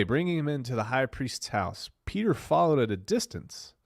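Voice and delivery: Bible story read with big swings in pitch; dramatic scripture reading. Acted. Streamer telling viewers a Bible story, dramatic reading. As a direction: declaim the verses, leaning hard on key words.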